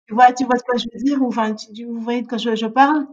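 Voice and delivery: imitation légère d'un prof, plus fort, plus rapide; prof qui interpelle. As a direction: interpeller deux élèves en haussant la voix. Imite un prof qui les interpelle. (imitation d'un prof qui prend à partie)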